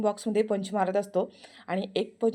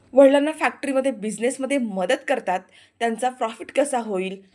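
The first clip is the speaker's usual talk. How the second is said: scornful lecture; 4 semitones higher, 5 dB louder than usual. Acted. Aarti lectures him scornfully.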